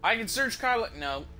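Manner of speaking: high, loud burst of disbelief; surprised disbelief. Real, not acted. Player reacting to a loot option, high and startled. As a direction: blurt it out high and loud, then drop to a plain no.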